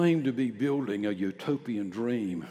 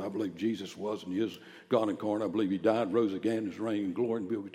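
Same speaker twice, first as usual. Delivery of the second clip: reluctant recital; much faster than usual. Retold or imitated. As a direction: reel it off without any preaching force. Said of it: "I'm not going out and say it just like that".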